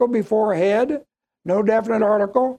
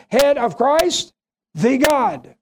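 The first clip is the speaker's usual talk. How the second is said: slow "head of Christ", pause, then "the God" falling; emphatic reading; slower than usual. Shown as a demonstration. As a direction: set "the God" apart as its own weighty phrase. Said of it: "This is the way it should read".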